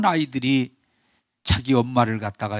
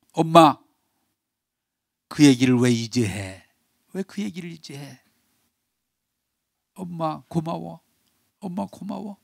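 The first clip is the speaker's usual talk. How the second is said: wailing thanks; 3 semitones higher than usual. Retold or imitated. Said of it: "막 통곡을 하면서". (통곡하며 점점 작아지는 목소리)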